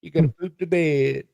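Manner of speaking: mock spooky curse, pitched high on the last words; laying a curse. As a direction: cast a silly hex on her. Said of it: "I'll put a curse on you".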